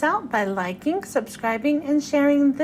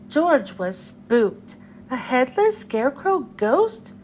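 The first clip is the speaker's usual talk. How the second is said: lively read-aloud storytelling voice; storybook reading for children. Acted. The speaker reading a Halloween picture book to children, lively storytelling. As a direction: read it like a children's librarian to kids.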